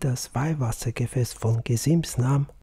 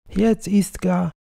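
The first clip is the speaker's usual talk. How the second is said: higher, piercing cry of grief; shrill heartbroken cry; 7 semitones higher, 4 dB louder than usual. Acted. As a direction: wail that he has just died. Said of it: "rief das Weib aus, schrill und herzdurchdringend".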